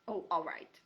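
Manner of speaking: growling. Acted. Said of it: "he growled".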